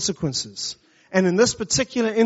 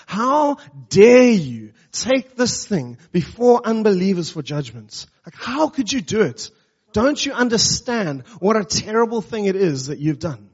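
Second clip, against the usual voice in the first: emphatic Paul; 3 semitones higher than usual. Acted. Paul rebuking the Corinthians for suing before unbelievers, emphatic and outraged. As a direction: stretch out HOW DARE YOU like a shocked apostle. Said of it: "it is so emphatic".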